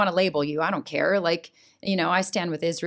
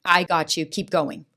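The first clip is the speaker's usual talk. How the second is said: reassuring God's voice; 2 semitones lower than usual. Retold or imitated. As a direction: gently tell her she's safe. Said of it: "when God said".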